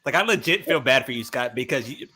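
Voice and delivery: muffled, hard to hear; like talking through a wall. Real, not acted. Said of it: "You sound muffled like hell".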